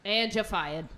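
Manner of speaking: understated soap-opera confession; melodrama. Acted. Cast confessing an affair to the president, as hushed melodrama. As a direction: play it as mild melodrama. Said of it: "focus on the melodrama".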